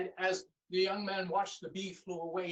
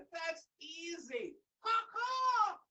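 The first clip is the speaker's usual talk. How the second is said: bird voice; 12 semitones higher, slower than usual. Acted. Blackbird reassures the young man, high then cawing. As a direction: chirp it easily, then caw.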